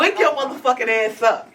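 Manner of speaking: half-laughing retold shout; laughing command. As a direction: wake the faking uncle up. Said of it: "retold yelling at uncle".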